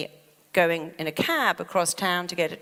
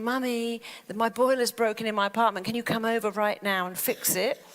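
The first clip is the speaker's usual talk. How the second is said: higher-pitched imitation of a nagging daughter; pleading daughter; 4 semitones higher than usual. Coach imitating her daughter phoning Mummy, pleading. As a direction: mimic a grown child asking for help. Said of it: "My daughter's going".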